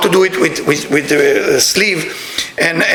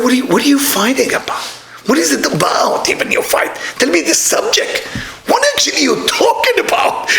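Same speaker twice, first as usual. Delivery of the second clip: climbing higher to a shouted, teasing question; mock amazement; 6 semitones higher than usual. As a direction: demand to know what they are even fighting about. Asking a fighting couple.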